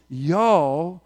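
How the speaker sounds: drawn-out Southern "y'all"; Southern accent. Acted. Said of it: "in the southern accent".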